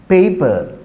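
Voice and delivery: Paper said as PAY-puh; teacher's pronunciation. Shown as a demonstration. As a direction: say Paper with a gliding "ay" diphthong. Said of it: "this is my pronunciation".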